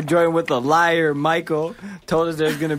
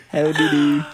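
lower, lightly put-on British politeness; mock British accent; 4 semitones lower than usual. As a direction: play at a formal British greeting. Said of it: "British people just being like that".

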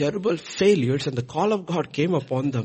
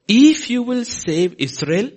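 pleading Gideon; 10 semitones higher, 7 dB louder, slower than usual. Retold or imitated. Gideon's plea to God.

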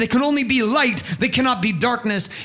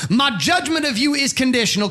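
mock judgmental shout; 4 semitones higher than usual. Mocking judgmental church voice.

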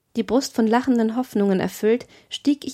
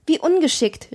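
mild higher-pitched exclamation; exclaiming; 6 semitones higher than usual. A narrator's reading. Wanda scolds her clumsy slave, mildly exclaiming. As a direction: call it out lightly, pitch raised. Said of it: "rief sie".

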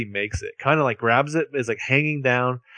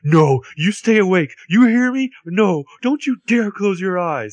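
high, slow, louder mock plea; pleading; 7 semitones higher, 4 dB louder, slower than usual. Arya begging the wounded Ezra to stay awake, slow high plea. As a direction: beg him to stay awake. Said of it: "And Arya's like".

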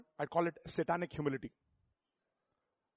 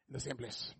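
whisper; 5 semitones lower, 10 dB quieter than usual. Acted. Preacher whispering the punchline to the congregation.

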